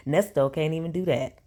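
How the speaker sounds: said through leftover laughter; laughing. Real, not acted. Still laughing at his misspelled curse word, she mocks him.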